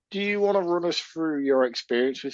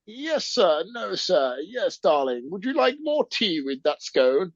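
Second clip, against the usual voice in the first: mock posh British accent; 4 semitones higher, slower than usual. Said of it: "trying to do a posh British accent".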